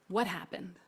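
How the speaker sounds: soft, sincere question; genuinely curious. Retold or imitated. Bus driver calming riders, genuinely curious. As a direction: ask it like you truly want to know. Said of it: "in a voice of genuinely wanting to know".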